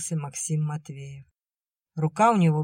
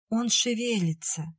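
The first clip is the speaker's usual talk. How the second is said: high, hushed wonder; spellbound; 6 semitones higher than usual. A narrator's reading. Nadya feeling the baby move, spellbound. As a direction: marvel in a lifted, light voice. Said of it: "проговорила Надя завороженно".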